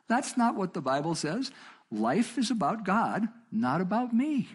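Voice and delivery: high-pitched, drawn-out declaration; emphatic retold protest. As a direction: proclaim it high, stretching the key words. Retold emphatic answer continues.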